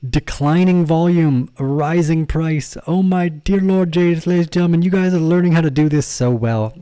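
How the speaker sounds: proud teacher bursting with excitement; thrilled exclamation. Real, not acted. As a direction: exclaim with real delight, stretching the words. Thrilled that students learned the pattern.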